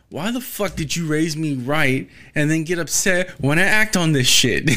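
a son ranting at his parents. Retold or imitated. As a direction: vent it like you did at home. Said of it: "I was ranting myself the other day".

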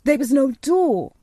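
put-on high, loud boyish protest; crying out. A narrator's reading. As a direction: insist on it in astonishment. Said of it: "cried Colin".

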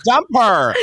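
loud laughing shout of the punchline. Acted. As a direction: belt it out while cracking up. Running "dump her" gag, peak.

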